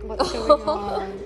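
slow, high, laughing puppy voice; confused dog voice. Pretend. Owner voicing her confused dog, slow and high with a laugh. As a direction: voice the sad pet slowly through a laugh. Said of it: "He's like".

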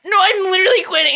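mock-shouted refusal; insistent retort. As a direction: push back hard and quick. Arguing with manager about quitting.

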